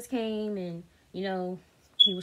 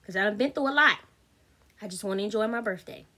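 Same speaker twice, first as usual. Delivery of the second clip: retold telling-off; 2 semitones higher, 3 dB louder than usual. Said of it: "And I told him, I said".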